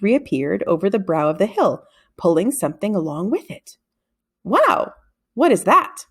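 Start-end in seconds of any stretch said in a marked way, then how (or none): 4.4-6.1 amazed. A narrator's reading. Boy amazed at strange light.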